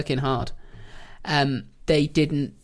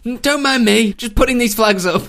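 breezy invader; 7 semitones higher, 7 dB louder than usual. Pretend. Plays English invader planting flags.

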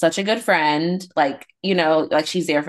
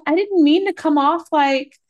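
imitating defensive sister; 11 semitones higher, 3 dB louder than usual. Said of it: "She's like".

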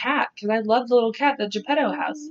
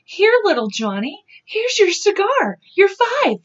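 carnival worker voice; 10 semitones higher, 4 dB louder, much slower than usual. Retold or imitated. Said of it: "you're like".

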